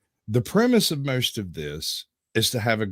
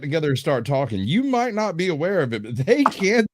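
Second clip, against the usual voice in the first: mock announcer; 3 semitones higher, 3 dB louder than usual.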